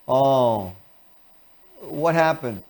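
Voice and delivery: gentle concern. Shown as a demonstration. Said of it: "if you had someone in grief".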